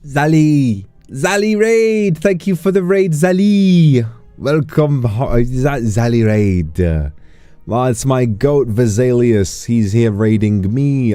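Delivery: high excited squeal; cute anime streamer. Real, not acted. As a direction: greet the raid with a bright squeal. Greeting an incoming raid.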